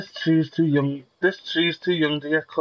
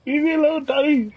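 put-on high, bratty kid voice calling Daddy; whiny child voice; 8 semitones higher than usual. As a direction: whine it like a spoiled kid.

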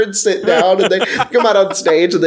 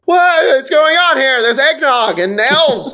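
baffled players; 7 semitones higher than usual. Retold or imitated.

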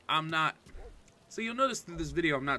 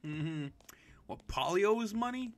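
unvoiced, gossipy whisper; whispered aside; 6 semitones higher, slower than usual. Real, not acted. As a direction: lean in and whisper it. Whispered aside over game dialogue.

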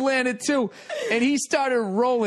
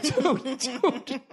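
dude through a laugh, higher; 5 semitones higher than usual. Retold or imitated. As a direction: say dude while cracking up. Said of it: "Doing that dude while laughing".

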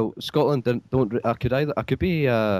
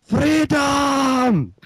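high, loud Scottish battle cry "Freedom!"; Braveheart Scottish shout; 13 semitones higher, 3 dB louder than usual. Pretend. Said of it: "do a Scottish accent".

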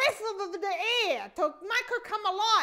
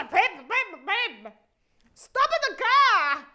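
loud urgent calls to her husband; wife yelling orders at her husband; urgent calling; 6 dB louder than usual. Retold or imitated. Retold urgent call to husband.

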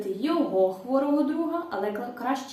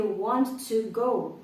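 slow model phrase; much slower than usual. Shown as a demonstration. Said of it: "Хочу піти".

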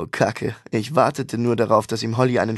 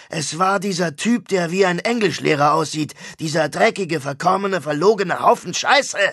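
ranting rock star; 5 semitones higher than usual. Acted. Star complaining to his brother about slander, aggrieved rant. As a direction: vent about the lies in the press. Mosch rants about the news.

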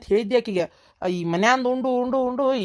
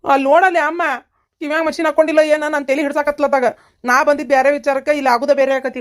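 raised voice; 4 semitones higher, 5 dB louder than usual. Acted. Shouting to a deaf mother.

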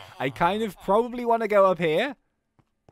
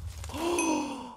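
shocked gasp; 4 dB quieter than usual. Acted. Shock at captive's death.

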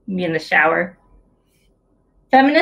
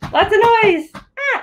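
excited noise; 13 semitones higher than usual. Pretend. Showing how babies make noise.

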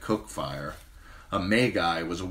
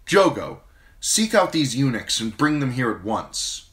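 higher, louder queenly proclamation; proclaiming; 7 semitones higher, 6 dB louder than usual. Acted. Queen proclaims her order before the riders, higher louder. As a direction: proclaim it to all.

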